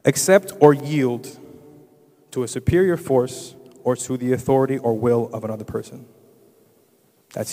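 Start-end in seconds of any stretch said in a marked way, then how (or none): 0.1-6.1 loud, emphatic reading of a definition; reading aloud. Real, not acted. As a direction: read it out firmly to a congregation. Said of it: "I'm gonna read something to you".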